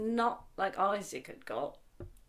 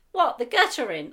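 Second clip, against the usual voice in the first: puzzled question; 4 semitones higher, 11 dB louder than usual. Retold or imitated. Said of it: "And he said".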